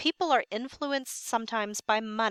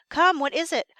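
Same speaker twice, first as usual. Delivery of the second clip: sharp and raised, pressing for an answer; impatient demand; 6 semitones higher, 7 dB louder than usual. Acted. Impatient king demands news.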